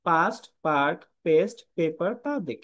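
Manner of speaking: পাস্ট পেস্ট with an unaspirated p; Bengali style. Shown as a demonstration. Teacher repeating the Bengali-style p. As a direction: say পেপার with plain Bengali p. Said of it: "আমরা বাংলাদেশি যারা আছি তারা কিন্তু উচ্চারণ করি".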